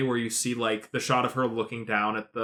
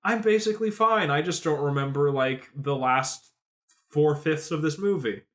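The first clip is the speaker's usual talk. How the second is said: mock C-3PO; 4 semitones higher than usual. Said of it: "He's like".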